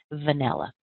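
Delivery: teacher's clear model of "Vanilla"; "Vanilla" with weak first and last syllables; careful pronunciation demo. Shown as a demonstration. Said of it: "let's break down the word vanilla".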